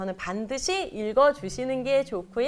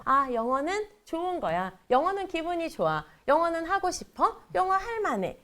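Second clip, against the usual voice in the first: put-on imagined eager child; 6 semitones higher than usual. Voices child's good feelings about English.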